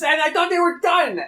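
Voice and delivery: loud exasperated high yell; angry shout. Real, not acted. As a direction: vent it at full volume. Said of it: "I'm so angry".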